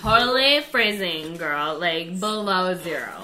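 lightly played valley girl; casual valley girl chatter. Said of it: "Speak like a valley girl".

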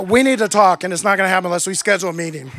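giggling half-serious demand; laughing mock insistence. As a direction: laugh while hammering the point home. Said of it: "You're like".

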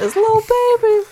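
high, loud sing-song cartoon mom voice; Linda from Bob's Burgers. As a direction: belt it like a brassy cartoon mom. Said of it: "and then I was like".

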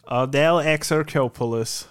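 lightly robotic, even name readout. Shown as a demonstration. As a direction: say it like the text to speech. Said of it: "ich sag's ja genauso in dieser Roboterstimme".

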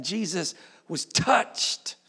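slow hushed whisper; preacher whispering a tender point. Acted.

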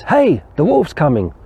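storyteller's lightly voiced cry of wolf; boy crying wolf. Boy cries wolf in retold story.

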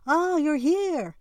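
high, loud, drawn-out welcome; slow, gushing high-pitched greeting; excited squeal. A narrator's reading. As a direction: practically squeal it with delight. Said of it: "practically squealed".

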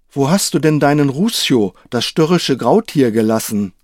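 a hint of a proud old knight. Voices the knight Quixote.

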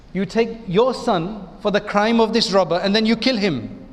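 put-on light South African accent, slowed and rising toward the end; a hint of South African accent, imitating a late preacher. Lecturer imitating a South African preacher's parable in mild South African accent. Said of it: "in his South African accent".

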